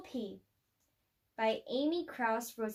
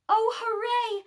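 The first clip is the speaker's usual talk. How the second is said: bright high cheer, louder; 9 semitones higher, 6 dB louder than usual. A narrator's reading. Narrator cheers as the king sees the rescue, excited. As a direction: burst out with joy at the rescue.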